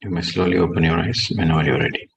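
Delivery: soft, low meditation voice with long pauses; guided meditation. Real, not acted. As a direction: bring them gently out of meditation.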